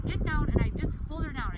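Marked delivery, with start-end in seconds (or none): 0.1-0.5 louder, firm get-down command. Shown as a demonstration. Showing how she orders her dog down with a louder, firm command. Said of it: "I say".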